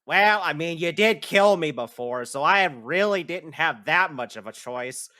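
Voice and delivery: lightly voiced, reluctant sidekick; rat character. Rat reminds the player they killed it, lightly voiced complaint.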